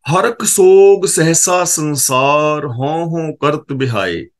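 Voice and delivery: slow, drawn-out chanted recitation of the verse; scripture recitation. Acted. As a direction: intone the holy line slowly, word by word. Recites scripture line slowly.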